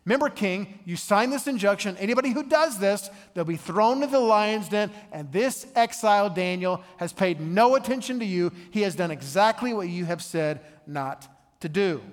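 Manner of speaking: tattle on Daniel like a fifth grader running to the teacher; tattling fifth grader. Retold or imitated. Officials tattling to the king, a hint of a whiny fifth grader. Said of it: "and like a fifth grader, they go and tattle to the king".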